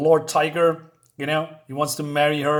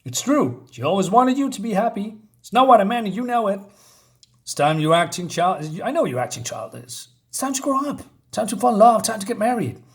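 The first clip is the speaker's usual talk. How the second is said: retold angry scolding, pitched higher; mock outrage in a raised pitch; growing anger; 6 semitones higher than usual. Father scolding his daughter about growing up, mildly angry. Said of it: "He's getting angrier and angrier".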